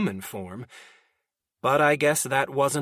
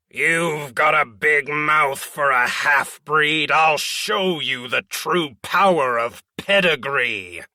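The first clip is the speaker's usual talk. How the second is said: loud, slow, haughty roar; 5 dB louder than usual. Acted. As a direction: roar the insult down at him. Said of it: "Jaralise roared".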